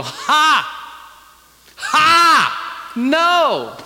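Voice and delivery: loud, high scornful laugh, then a shouted no; mocking laugh and no. Preacher scoffing at men's claim to power, loud mocking laugh. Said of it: "I just want to go".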